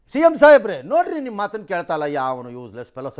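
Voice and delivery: loud appeal to the Chief Minister; acted complaint. Acts out citizen's video complaint to CM.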